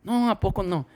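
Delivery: high, slow teasing "No, hijo"; mock scolding coworker. Coworker teasing the new guy, high and drawn out. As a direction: lay on the older lady's disappointed tease.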